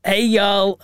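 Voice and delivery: attempted Southern American drawl; halting try at a redneck American accent; half-hearted American Southern accent; rednecky American accent. Shown as a demonstration. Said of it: "like, really rednecky".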